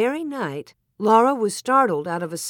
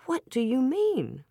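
high, puzzled question; raised pitch, waking to surprise; more awake; 7 semitones higher than usual. A narrator's reading. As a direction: perk up, newly alert and questioning. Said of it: "more awake now".

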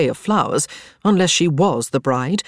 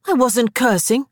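high, defensive little protest; 8 semitones higher than usual. A narrator's reading. Elizabeth answers a scolding for cursing, protesting. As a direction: protest your innocence. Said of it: "Elizabeth protested".

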